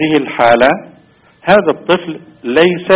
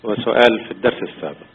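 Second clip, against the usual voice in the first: over the phone; 3 semitones lower than usual. Real, not acted. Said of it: "ترفع صوتك لو تكرمت وتسمعنا من الهاتف".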